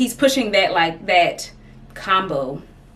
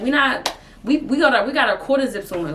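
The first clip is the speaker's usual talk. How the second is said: put-on New York accent; 4 semitones higher than usual. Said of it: "thick New York accent".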